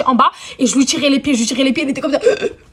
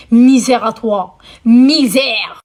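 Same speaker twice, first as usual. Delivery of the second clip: mock curse; 5 dB louder, much slower than usual. Real, not acted. Cursing the cousin.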